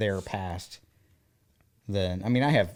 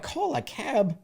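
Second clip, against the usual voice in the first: incredulous echo; 13 semitones higher, slower than usual. Retold or imitated. Incredulous child repeating grandparents.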